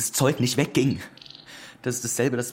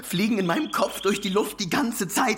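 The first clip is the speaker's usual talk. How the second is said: haunted; 5 semitones higher than usual. Acted. Noah traumatisiert.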